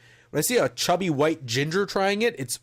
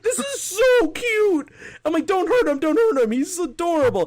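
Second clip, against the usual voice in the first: very high cooing voice, like talking to a puppy; cooing baby talk; 3 dB louder than usual. Retold or imitated. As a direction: coo over him as if he were a cute little pet. Cooing over the whimpering man.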